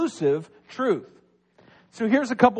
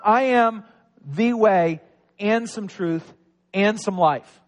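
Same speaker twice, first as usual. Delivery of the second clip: "some truth" and "some life" said lightly as the wrong reading; mock wrong version. Shown as a demonstration. Pastor showing the congregation the wrong reading, mock contrast. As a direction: toss off "some" as if truth came in portions. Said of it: "So it's not".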